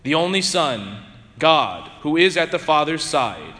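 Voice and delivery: measured solemn proclamation; gospel reading. Real, not acted. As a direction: read scripture aloud to the congregation.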